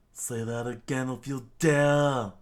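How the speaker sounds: pirate captain roaring at his traitor; furious scream. Acted. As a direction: bellow the dare at him. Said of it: "Don Krieg screamed out".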